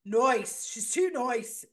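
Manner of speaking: mock Irish accent. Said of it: "your imitation of the accent".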